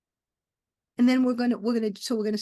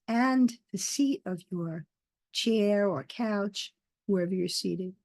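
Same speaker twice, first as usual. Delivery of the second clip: guided meditation. Acted. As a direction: lead them gently into the breath, unhurried.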